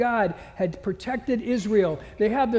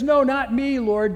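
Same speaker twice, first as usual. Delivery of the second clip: Peter's loud protest, louder; 4 semitones higher, 7 dB louder than usual. Acted. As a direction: push back hard, louder: not me.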